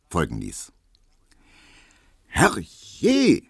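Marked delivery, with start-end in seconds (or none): 2.3-3.4 high, loud cry through the door; startled yell from inside the flat; shouted exclamation. A narrator's reading. Maid to the caller ringing at the door, shouting high. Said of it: "schrie Hedwig drinnen".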